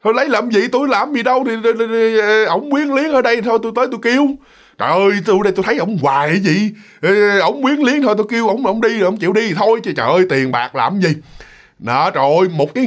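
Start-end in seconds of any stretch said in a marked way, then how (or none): 0.0-11.1 higher, breezy refusal; refusing the money. Retold or imitated. Drunk old man waving off the family's money, higher and breezy. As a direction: brush off the reward like it's nothing. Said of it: "không lấy là không lấy".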